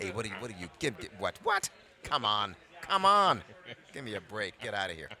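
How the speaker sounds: hammed-up Brooklyn protest; Brooklyn accent. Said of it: "my Brooklyn accent".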